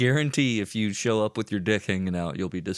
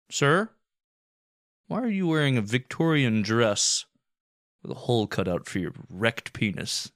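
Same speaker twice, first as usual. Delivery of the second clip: higher, louder officious cop voice; mock cop; 4 semitones higher, 3 dB louder than usual. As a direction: question him like a stern cop. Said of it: "voicing a cop in a bit".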